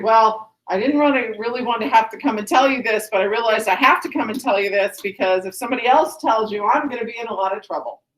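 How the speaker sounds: fast, run-on imitation of a nervous explanation; hurried mock excuse, words tumbling out; convoluted rambling. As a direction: rattle through a tangled excuse. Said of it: "he kinda does this convoluted".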